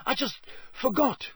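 high, exasperated excuse; impatient. A narrator's reading. Harry excusing himself to Myrtle, impatiently. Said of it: "he said impatiently".

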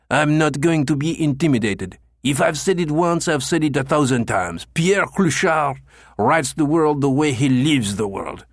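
indignant rant. Acted. Indignant old man rants at Becker.

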